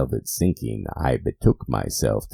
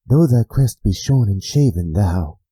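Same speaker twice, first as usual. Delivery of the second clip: higher, louder challenge; bold address; 7 semitones higher, 6 dB louder than usual. Acted. The narrator boldly addresses the raven, higher and louder. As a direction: challenge the bird head-on.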